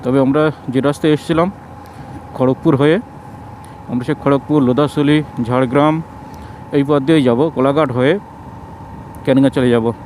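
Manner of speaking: muffled behind a mask; through a face mask. Real, not acted. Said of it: "কারণ মুখে mask পরা আছে".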